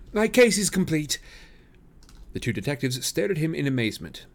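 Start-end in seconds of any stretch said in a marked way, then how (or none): 0.1-1.2 high and loud with triumph; delighted. A narrator's reading. Holmes to the detectives, high triumphant delight. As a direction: announce it like a solved puzzle. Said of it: "exclamation of delight".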